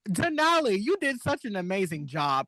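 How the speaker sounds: hammed-up judge praising the winner; RuPaul impression. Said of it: "she just was like".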